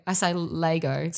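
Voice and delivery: "Lego" said as LAY-go; mispronounced Lego. Shown as a demonstration. Admitting her own way with "Lego", LAY-go. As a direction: stretch "Lego" into lay-go, slowly. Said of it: "I'm aware that it's so wrong".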